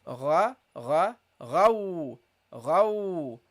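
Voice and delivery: gargled gha, ghau; teacher drills the letter ghain; Arabic ghain. Shown as a demonstration. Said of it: "And the ghain".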